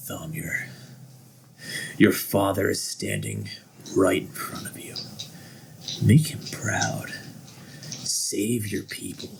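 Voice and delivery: hushed, slow tempting voice; whispering dark god. Acted. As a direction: coax him softly like a devil.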